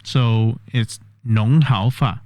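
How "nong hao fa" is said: "Nong hao fa" repeated carefully, copying the tutor; first attempt at "Nong hao fa", close but unsure; learner's try at Shanghainese. Shown as a demonstration. Learner repeating the AI's greeting, careful imitation. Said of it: "Give it a try".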